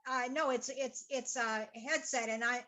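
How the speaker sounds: pushing volume into the headset; talking as loud as possible. Real, not acted. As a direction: speak up so the call picks it up. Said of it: "I'll talk as loud as I can then".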